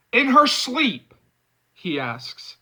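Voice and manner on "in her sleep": high, slow, disbelieving echo; mock the excuse; sarcastic. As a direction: friend mocking his jealousy, sarcastic. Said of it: "I can hear the sarcasm in his voice".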